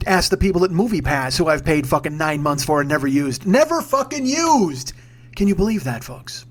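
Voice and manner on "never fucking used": high, drawn-out indignant cry; exasperated outburst. Acted. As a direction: stretch it out high in disbelief. Mock outrage at own waste.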